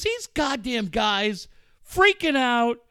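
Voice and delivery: high, loud, drawn-out raving; losing it. Retold or imitated. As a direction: imitate a coach freaking out with excitement. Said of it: "Bud lost his shit".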